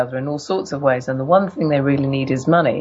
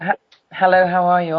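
hoarse, husky greeting; 4 semitones higher, 3 dB louder, faster than usual. Real, not acted. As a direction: speak through a sore throat. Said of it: "a deep voice like this".

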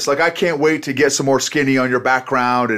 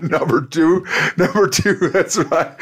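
laughing; 4 semitones higher than usual. Real, not acted. Laughing at his own slip.

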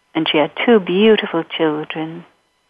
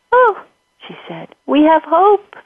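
hopeful; 7 semitones higher, slower than usual. Acted. Mother sees hope.

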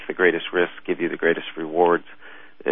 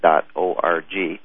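slow, deliberate; much slower than usual. Shown as a demonstration. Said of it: "It's all one word".

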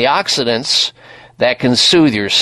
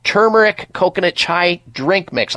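ad read; 3 semitones higher than usual. Acted. Radio product plug.

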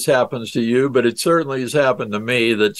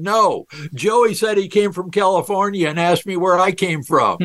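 put-on boy's excited call, pitched a bit higher; a hint of a child blurting out; mild mock shout; 6 semitones higher than usual. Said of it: "And he shouts out".

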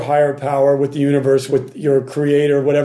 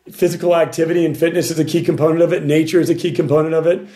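slightly hoarse, worn-out voice; 3 semitones higher, faster than usual. Real, not acted. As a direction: voice a bit shot after singing. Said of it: "My voice might sound a little shot".

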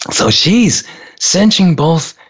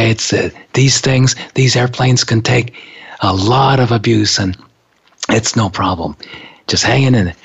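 lower, calm soothing voice; reassuring; 3 semitones lower than usual. Retold or imitated. Reassuring the frightened woman next to him, calm and soothing. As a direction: talk her down gently.

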